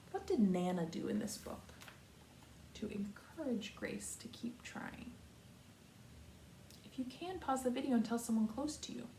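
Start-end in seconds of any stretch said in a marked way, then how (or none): 0.1-5.1 hushed rephrase. Shown as a demonstration. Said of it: "Our good reader question today is".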